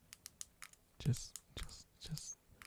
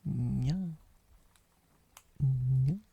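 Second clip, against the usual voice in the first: a loud mock anime cat nya; 6 dB louder than usual. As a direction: mimic the viewer's nya. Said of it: "suddenly you go all".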